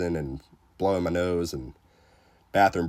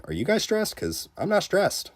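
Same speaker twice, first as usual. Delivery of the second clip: mock calm; 11 semitones higher than usual. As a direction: insist you're fine, clearly stressed. Feigned calm during tense upgrade.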